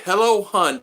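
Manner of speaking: high, loud, syrupy hello hun; mocking a stranger's syrupy Facebook greeting; mock sultry greeting. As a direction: ham up the flirty stranger's voice. Mocking a stranger's flirty message.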